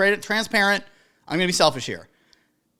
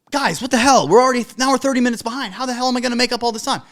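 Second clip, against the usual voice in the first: mock complaining; 3 semitones higher, 3 dB louder, faster than usual. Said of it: "Instead of being like".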